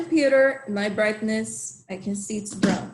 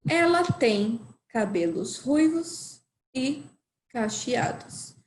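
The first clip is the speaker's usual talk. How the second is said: model for repeating. Shown as a demonstration. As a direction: clear model sentence for the class to repeat. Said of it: "can you repeat with me".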